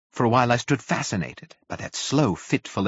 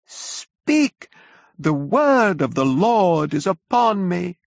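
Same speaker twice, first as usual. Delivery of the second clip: high, loud and slow, arms outstretched; prophetic shout; 10 semitones higher, 4 dB louder, much slower than usual. A narrator's reading. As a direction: cry out the Lord's word, much higher. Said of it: "shouted the curate at the top of his voice".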